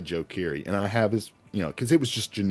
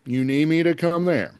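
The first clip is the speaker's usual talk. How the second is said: Bill Maher impression; 8 semitones higher, 4 dB louder than usual. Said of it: "my Bill Maher impression's not that".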